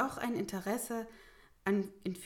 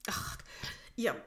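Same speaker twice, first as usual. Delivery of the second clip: exasperated; 3 dB louder than usual. Acted. Mayor gives up on stubborn Grimkjell.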